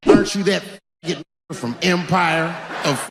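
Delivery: prim hesitant voice; mock polite white person. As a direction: stumble over it like a timid white guy. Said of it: "how white people talk".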